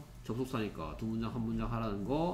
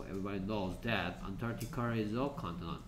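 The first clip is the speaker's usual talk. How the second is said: slow reading; 5 semitones lower, 6 dB quieter, much slower than usual. Shown as a demonstration. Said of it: "teacher reads combined sentence".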